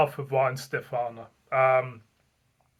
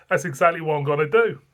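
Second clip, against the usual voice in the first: ordinary talk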